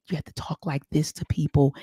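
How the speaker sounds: measured, even and polite; nice tone. Shown as a demonstration. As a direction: talk in a careful nice tone. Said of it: "You have to speak in a nice tone".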